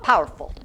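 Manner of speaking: "Powerful" as "pow'rful"; two syllables. Shown as a demonstration. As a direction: elide the middle of "Powerful". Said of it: "make it two syllables".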